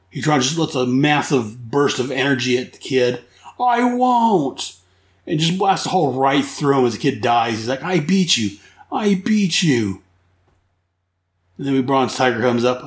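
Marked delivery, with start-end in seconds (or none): 3.6-4.8 much higher defiant yell; high, defiant villain shout; defiant cry. Retold or imitated. Villain unleashes energy blast. 7.8-10.0 lightly voiced villain gloat. Villain gloats over kill.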